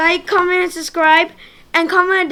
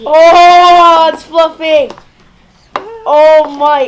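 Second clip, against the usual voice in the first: loud delighted squeal; excited squeal; 11 dB louder, much slower than usual. Real, not acted. Hands in slime, squealing.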